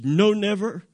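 "No, never" pitched high with firm weight on both words; emphatic negation. Shown as a demonstration. Preacher showing the emphatic wording of scripture, emphatically. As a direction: hit "No" and "never" high and hard. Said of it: "in the emphatic it says".

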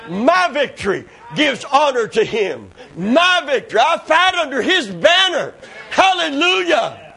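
exultant preacher, climbing in pitch; rising preaching. Acted. Preacher declaring victory under God's banner, building preaching. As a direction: build to a high pulpit shout.

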